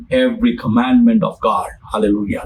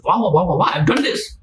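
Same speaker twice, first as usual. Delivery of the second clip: excited. Retold or imitated. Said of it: "He was very excited".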